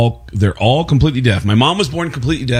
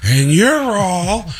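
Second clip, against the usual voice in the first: slow, building, much higher Pacino yell; Al Pacino shouting; 10 semitones higher, slower than usual. Retold or imitated. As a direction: escalate into a full Pacino rant. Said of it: "me as Al Pacino".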